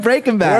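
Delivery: BREAKING BAD squashed into one word; mimicking run-together words. Co-host insists his friend said it wrong, mimicking the joined-up title. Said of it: "He said it like it's one word".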